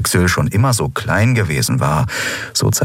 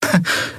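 forced laugh. Acted. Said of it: "Endriel produzierte ein Lachen".

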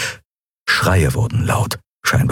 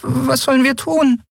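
anxious near-whisper. Acted. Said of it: "Nelens ängstliche Stimme war kaum mehr als ein Wispern".

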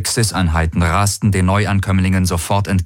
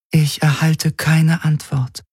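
higher, otherworldly alien voice; alien entity voice; 8 semitones higher, slower than usual. A narrator's reading. The Helix explains the ships' doubt in a strange voice. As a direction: sound distant and strange, not human.

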